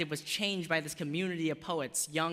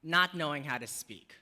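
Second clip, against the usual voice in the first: spoken-word poem. Acted. Poet reciting her own piece about language to the audience. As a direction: perform it like a poem on stage.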